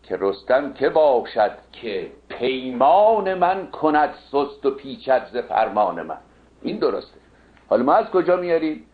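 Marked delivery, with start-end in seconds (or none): 0.0-6.2 measured epic verse reading with drawn-out stresses; verse recitation. Acted. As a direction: recite the couplet slowly, stretching key words. (دکلمهٔ شمرده و کشیدهٔ شعر حماسی)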